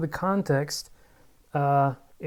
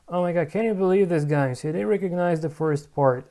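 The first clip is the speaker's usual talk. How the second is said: excited disbelief; 4 dB louder than usual. Real, not acted. App finally recognizes Korean.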